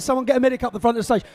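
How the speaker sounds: fast urgent call to the crowd; rushed shout for help; calling for a medic. Real, not acted.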